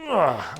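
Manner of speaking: short strained grunt; effort grunt. Real, not acted. Climber yanks on the rope to test it, effort grunt. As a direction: grunt from pulling hard. Pulls with maximum force on rope.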